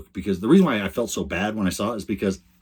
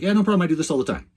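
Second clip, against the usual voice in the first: put-on much higher, breezy kid voice; younger brother; 10 semitones higher, 3 dB louder, faster than usual. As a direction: toss it off like a cocky kid brother. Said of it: "the younger brother was like".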